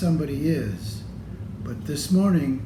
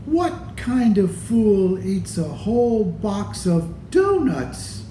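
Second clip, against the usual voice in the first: teasing, rising higher; rising taunt, louder at the end; mocking brother; 4 semitones higher, 3 dB louder than usual. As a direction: taunt him like a big brother.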